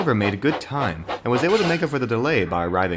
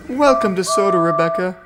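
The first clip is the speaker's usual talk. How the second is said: high and loud with delight; joyful cry; 10 semitones higher, 6 dB louder than usual. Acted. Oliver joyfully welcomes Rebecca, high and loud. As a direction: welcome her gladly. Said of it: "cried Oliver joyfully".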